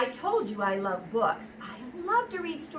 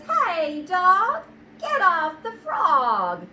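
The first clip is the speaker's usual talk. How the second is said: loud, high frog yelling at the dog; a bossy frog shouting in a read-aloud; indignant frog; 6 semitones higher, 8 dB louder, much slower than usual. Acted. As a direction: shoo the dog off, frog-style.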